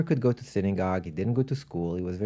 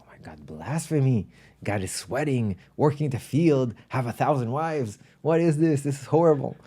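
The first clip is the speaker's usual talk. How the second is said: building from muttered disbelief to higher-pitched indignation; imitating a rabbi appalled by blasphemy; mock outrage; 3 semitones higher than usual. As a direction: lightly act a scandalized rabbi, pitch climbing as you go. Rabbi's outrage acted in a story.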